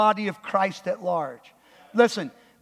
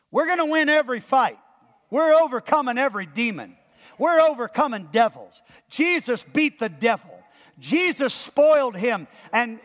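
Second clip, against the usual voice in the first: confident, energetic preaching; triumphant proclamation; 5 semitones higher, 3 dB louder than usual. Shown as a demonstration. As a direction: declare it like a sure victory. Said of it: "Here's how you ought to understand this".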